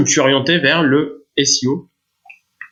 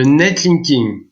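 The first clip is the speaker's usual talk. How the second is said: slowly set-off jargon; much slower than usual. Real, not acted. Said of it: "terme barbare".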